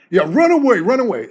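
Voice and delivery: taunting. Retold or imitated. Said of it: "called out for that shit".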